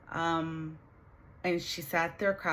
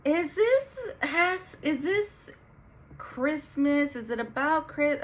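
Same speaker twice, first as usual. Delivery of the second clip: dread; 9 semitones higher, 3 dB louder, slower than usual. Retold or imitated. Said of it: "and I'm like".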